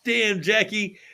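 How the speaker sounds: high, slow, laughing through the words; laughing disgust. Retold or imitated. Host laughing at his friend's cereal stunt, slow and laughing. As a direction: crack up while calling it gross. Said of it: "And I'm like".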